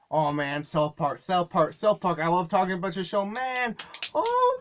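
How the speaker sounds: hammed-up cartoon host. Shown as a demonstration. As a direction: go wilder, end in a cartoon cackle. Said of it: "let's try to make it more cartoony".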